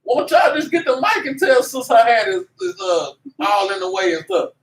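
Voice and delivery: exasperated outburst. Retold or imitated. Preacher retelling his outburst at chatty back-row churchgoers, high and exasperated. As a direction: blurt it out like you've had enough. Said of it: "I'm like".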